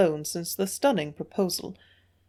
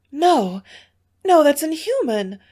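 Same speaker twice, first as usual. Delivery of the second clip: high, loud shocked protest; pitched-up, loud gasped no; horrified gasp; 8 semitones higher, 6 dB louder than usual. A narrator's reading. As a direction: cry out in horror. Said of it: "gasped Mary".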